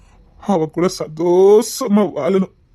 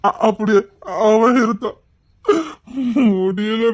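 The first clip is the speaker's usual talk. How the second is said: choked crying. Acted. Betrayed man sobbing to Rohini about his lover. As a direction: voice cracking into a sob.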